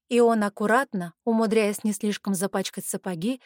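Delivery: ordinary delivery, nothing marked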